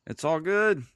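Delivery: upbeat catchphrase; sing-song and loud; playful. Acted.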